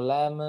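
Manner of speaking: "lam" as "la-me"; bounced M. Shown as a demonstration. Teacher repeats the mistake, bounced "lam". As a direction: add a short vowel after "lam". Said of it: "Nah, seperti itu lam".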